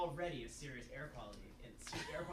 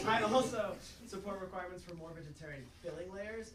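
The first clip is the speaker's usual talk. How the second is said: laughing; 4 semitones higher, 7 dB louder than usual. Real, not acted. Laughs mid-testimony.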